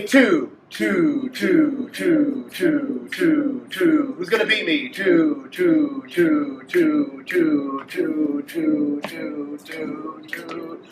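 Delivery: quick twos fading as air runs out; fast twos on one breath to empty; repeated two fading to nothing; running out of breath. Shown as a demonstration. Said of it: "say the word two as fast as I snap my fingers".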